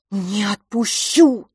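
slow, loud refusal; stubborn cry. Acted. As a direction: hold on and refuse firmly. Twin holds him.

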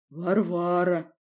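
slow, calm odd voice; unperturbed. Acted. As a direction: say it evenly, unbothered. Varvara's odd voice.

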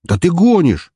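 high, loud incredulous exclamation; "you're kidding" incredulity, pitch jumping up; disbelieving. Acted. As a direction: blurt it out in disbelief. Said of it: "не поверил Трой".

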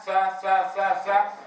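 ثاء said with cheeks puffed out, a mock error; wrong puffed-cheek way. Shown as a demonstration. Teacher shows students the wrong ثاء, cheeks puffed. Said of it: "فلا نقول".

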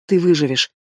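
plain reading voice

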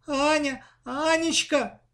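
high, frightened calling out; a scared girl shouting for her sister; terrified cry. A narrator's reading. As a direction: call her sister's name in panic. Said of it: "в ужасе закричала девочка".

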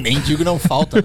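lightly voiced silly dog. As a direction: shrug it off as the dog. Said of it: "É o cachorro falando".

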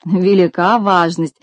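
slow, mocking drawl; understated scoffing reply; with a smirk. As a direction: brush it off with a sneer. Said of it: "с усмешкой ответил Винтик".

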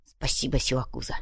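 soft, low, sincere thanks; heartfelt thanks. Acted. The savage thanking his friend, softly and low. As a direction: say it quietly from the heart. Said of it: "с чувством произнёс".

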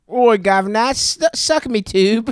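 mock Cockney accent. Podcaster jeering at the governor, mock Cockney accent. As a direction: ham it up as a cheeky Cockney. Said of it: "where that accent comes from".

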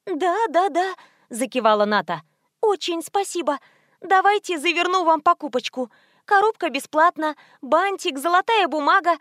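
high eager fawning voice; please him, high and eager; fawning saleswoman. Acted. Scared saleswoman fawns over the thug, high and eager.

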